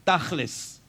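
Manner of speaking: "tachlis" with a throaty kh, stress on TACH; "tachlis" as a Hebrew speaker says it, throaty kh first. Shown as a demonstration. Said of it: "Learn this word in Hebrew".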